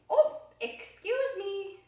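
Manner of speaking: gentle, slow, polite "excuse me". Shown as a demonstration. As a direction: say it with your best manners. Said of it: "Just like that".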